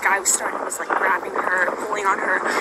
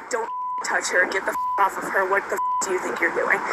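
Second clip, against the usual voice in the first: retold angry yell. Witness reenacts yelling at the attacker, pitch spiking in anger. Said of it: "To quote, I was like".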